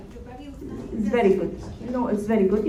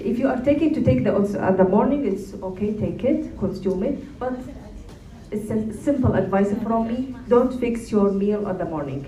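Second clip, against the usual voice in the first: Iraqi Arabic accent. Real, not acted. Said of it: "I speak with Iraqi accent".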